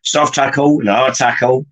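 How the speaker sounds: taco said as tackle, Wiltshire style; Wiltshire accent. Retold or imitated. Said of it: "in a Wiltshire accent?".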